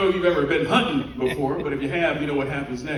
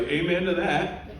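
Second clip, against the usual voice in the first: slow deadpan agreement; 2 semitones higher, 4 dB quieter, slower than usual. Retold or imitated. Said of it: "I was like".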